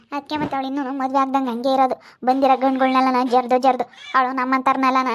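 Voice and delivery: put-on mother loudly warning her son off the girl; angry warning. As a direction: scold your son about her. Mother warns son about girl.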